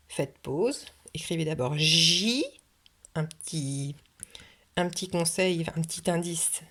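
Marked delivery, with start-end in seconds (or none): 1.8-2.4 "J" held long as "jiii", rising; long rising "J" for dictation; syllable stretched. Shown as a demonstration. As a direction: draw out "J" as the first syllable. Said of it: "Répétez bien chaque syllabe".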